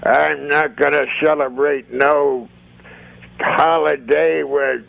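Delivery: a hint of a grudging old puppet; old man puppet. Puppeteer voices old man puppet answering about Christmas, lightly put-on old man voice. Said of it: "Rusty's old man voice".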